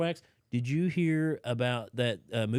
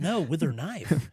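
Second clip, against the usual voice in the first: "No, with her knife" slow, each word spaced out; slow repeat of the pun; 5 semitones higher, 5 dB louder, slower than usual. Shown as a demonstration. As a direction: spell out "with her knife" slowly. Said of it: "What is it, Reese Witherspoon?".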